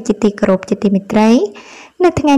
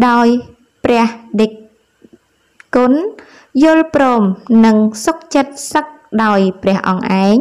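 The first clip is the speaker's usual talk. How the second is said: measured news reading in short, separated phrases. Acted. Presenter reads viewers a report on a monk, measured news read. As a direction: read it out like a news article, pausing between phrases.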